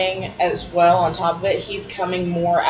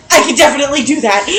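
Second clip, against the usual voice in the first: granny voice; 6 semitones higher, 5 dB louder, faster than usual. Retold or imitated. Granny voiced accepting her task.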